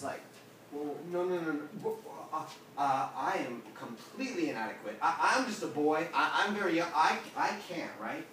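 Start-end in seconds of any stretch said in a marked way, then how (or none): 0.7-7.9 flustered refusal. Acted. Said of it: "he recognizes his smallness before the Lord".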